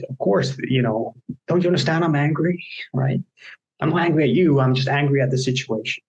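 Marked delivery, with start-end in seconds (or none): 1.5-6.0 higher, insistent frustrated plea; exasperated outburst. Retold or imitated. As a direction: vent like someone fed up. Acted frustrated person's outburst.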